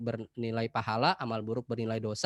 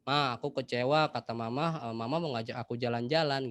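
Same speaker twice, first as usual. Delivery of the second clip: calm honest tone. Shown as a demonstration. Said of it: "dengan nada yang tepat".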